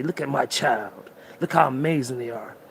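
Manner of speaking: put-on the universe gently showing off its child; universe speaking. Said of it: "The universe is trying to say".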